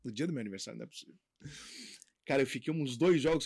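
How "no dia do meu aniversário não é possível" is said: breathy disbelief, almost voiceless; stunned whisper. Retold or imitated. On the beach on his birthday, he whispers in disbelief. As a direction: hush it like you can't believe it. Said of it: "Eu falei".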